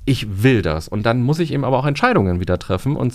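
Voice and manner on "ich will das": firm statement leaning on "will"; "will" stressed, falling to a decided end. Shown as a demonstration. Coach voicing a decision to become self-employed, stress on "will". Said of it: "die dritte Betonung ist".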